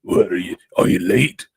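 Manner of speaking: put-on a light New York cabbie accent, brash; a hint of a brash New York cab driver. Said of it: "the New York cabbie voice".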